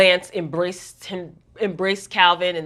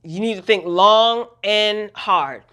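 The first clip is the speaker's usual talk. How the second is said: nice-not-nice warning; 3 semitones higher than usual. Retold or imitated. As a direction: imitate a boss's polite but pointed warning. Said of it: "in a nice but not so nice way".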